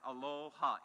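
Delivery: a soft greeting aloha; aloha, gently. Shown as a demonstration. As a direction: say aloha as a-LO-ha, three clear syllables. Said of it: "it goes something like this".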